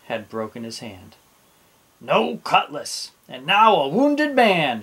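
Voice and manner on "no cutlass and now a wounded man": raised, louder lament, swelling; dismayed captain. A narrator's reading. Captain sees Dots's broken hand, dismayed. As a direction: lament it, stretching into the last words. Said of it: "he thought".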